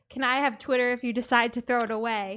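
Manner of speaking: ordinary delivery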